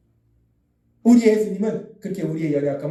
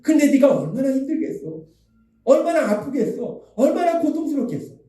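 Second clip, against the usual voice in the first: higher-pitched acted sympathy; sharing the pain; 6 semitones higher than usual. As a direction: ache along with the sufferer, pitched up. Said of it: "그 아픔을 함께 아파해". (함께 아파하듯 높은 목소리로 공감)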